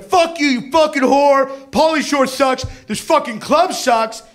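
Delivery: hammed-up furious redneck yell; mock yelling. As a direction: imitate a man cursing out the club. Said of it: "he keeps on yelling".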